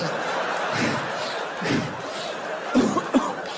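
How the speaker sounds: hammed-up panting and coughing; pug-like heavy breathing. Shown as a demonstration. Worn-out lover hunched at her ear, comic pug wheezing. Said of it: "breathing in her ear like a pug".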